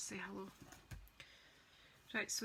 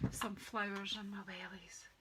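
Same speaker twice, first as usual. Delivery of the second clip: whisper. Real, not acted. Aside while crafting.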